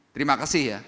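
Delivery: "Terima kasih ya" tossed off once, curt and offhand; a reluctant, dutiful "terima kasih ya"; a beggar now thanking out of habit, no longer grateful; grudging thanks. Acted. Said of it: "Tapi ngomongnya beda".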